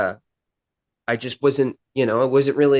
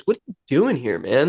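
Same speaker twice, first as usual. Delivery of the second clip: bewildered. Retold or imitated. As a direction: imitate a baffled cop, pitch up then falling. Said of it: "he's just kind of bewildered".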